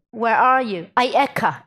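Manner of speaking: God calls out to the hiding man; calling. Retold or imitated. Voicing God calling Adam.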